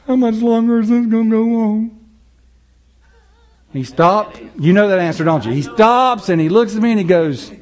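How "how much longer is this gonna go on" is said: put-on impatient childish whine. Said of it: "out of my whining and crying".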